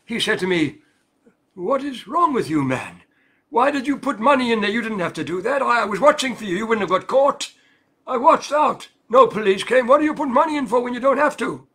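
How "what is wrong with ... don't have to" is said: angry. Retold or imitated. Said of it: "So he looked pretty angry at me".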